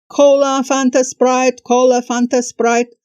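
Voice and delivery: hawker calling out. Retold or imitated. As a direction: call out your drinks like a mountaintop vendor. Drink seller hawking on crater rim.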